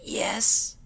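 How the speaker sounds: tiny squeaked whisper. Acted. Fluttershy answering the doctor in a squeak. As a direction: squeak it out, hiding. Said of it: "she squeaked".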